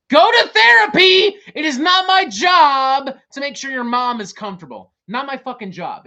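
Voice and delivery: furious yell. Real, not acted. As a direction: blast them with full fury. Yelling at the band.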